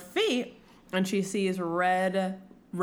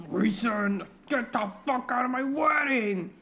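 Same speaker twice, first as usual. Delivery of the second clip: mock outraged groom; 2 semitones higher than usual. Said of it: "Tamlin's like that".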